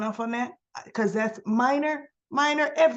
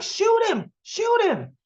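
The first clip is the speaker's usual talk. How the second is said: mock urgent yell; 10 semitones higher than usual. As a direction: play Obert barking the order, hammed up. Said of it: "Obert's like".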